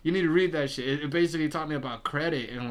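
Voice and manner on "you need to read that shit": high, loud playful scolding; real excited push; incredulous insistence. Real, not acted. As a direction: urge him to read it. Insisting friend read book.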